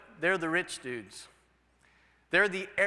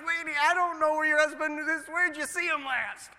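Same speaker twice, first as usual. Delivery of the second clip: puzzled pastor; 9 semitones higher, 4 dB louder than usual. Retold or imitated. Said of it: "And I'm like".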